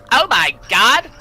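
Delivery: high, loud exclamation of shock; startled outcry. Acted. Man suddenly sees an intruder, startled outcry. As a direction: cry out in alarmed surprise.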